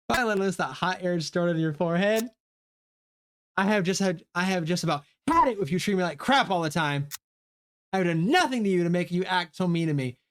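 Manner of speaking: lightly voiced angry schoolgirl, fed up; character outburst. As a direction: vent years of being treated like crap. Voices Phoebe's outburst and retort.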